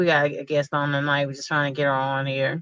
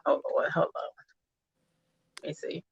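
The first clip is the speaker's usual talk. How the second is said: whisper; 10 dB quieter than usual. Real, not acted. Muttering while fixing audio.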